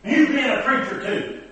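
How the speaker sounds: high, loud wagging-finger scold; indignant scolding. Retold or imitated. Offended mother scolding the preacher for his ignorance, high and loud. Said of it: "Miss Jones got all hard up".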